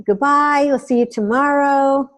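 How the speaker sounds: sign-off. Shown as a demonstration. Demonstrates signing off a broadcast.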